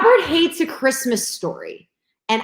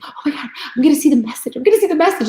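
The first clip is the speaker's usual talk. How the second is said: put-on excited kid; 4 semitones higher, faster than usual. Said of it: "where he's so excited".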